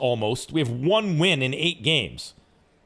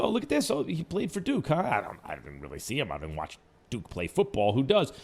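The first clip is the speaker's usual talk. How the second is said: mock Boston accent; 4 semitones lower, 5 dB quieter than usual. Host mocks Gettleman's draft pick in Boston accent. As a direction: lightly imitate a Boston GM shrugging off a pick in a Boston accent. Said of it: "am I imitating, uh, Gettleman's Boston accent".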